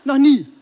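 NEVER punched high and loud; emphatic never. Real, not acted. Coach to audience, stressing never happened. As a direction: hammer home Noch nie.

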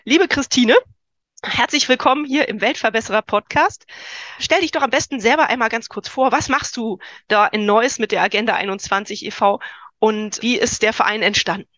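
nasal voice from a cold; stuffy nose. Real, not acted. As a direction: talk with a blocked nose. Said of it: "ich bin ein bisschen erkältet".

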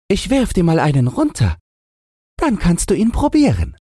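high squeaky piglet voice; high-pitched storybook pig; tricky little pig. A narrator's reading. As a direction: make the offer in a tiny pig squeak.

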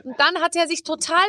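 usual speaking voice

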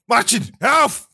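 high, slow mock telling-off; scolding girlfriend. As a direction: imitate a partner reining someone in. Retold girlfriend scolding the speaker.

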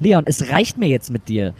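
slow, stern and measured; a mother's last warning, slowly. Acted. Mother loses patience. (langsam und streng)

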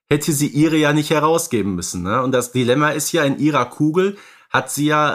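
ordinary delivery

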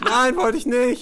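drawn-out, indignant denial; protesting prisoner. Acted. Prisoner accused of wanting human meat, indignant. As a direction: deny it like an offended cellmate.

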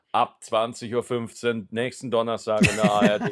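lightly voiced promo announcer; movie trailer voice. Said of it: "Trailerstimme von der A R D". (gemächliche Trailerstimme eines Fernsehsenders)

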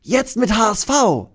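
hoch und laut angesagt; Mathildas Kommando. Acted. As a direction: sag den nächsten Teil laut an. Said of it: "sagt sie". (hohes, lautes Kommando)

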